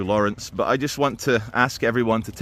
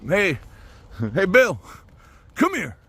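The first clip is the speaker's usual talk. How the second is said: heckling Christians; 6 semitones higher than usual. Retold or imitated. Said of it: "Christians saying".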